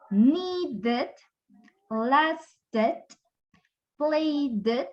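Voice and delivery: "needed, lasted, played" with the last syllable set apart; pronounced ED syllable. Shown as a demonstration. Teacher giving examples ending in D or T, pronounced ED syllable. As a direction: sound out each ending as its own syllable. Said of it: "Le agregamos a la pronunciación también E D".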